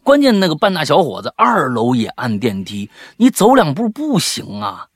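nagging mom lecture. Real, not acted. Ranting about lazy teens.

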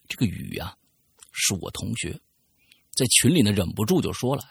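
reading a listener's letter aloud, storyteller style; story narration. Acted. Host reading a listener's letter on air, storytelling narration.

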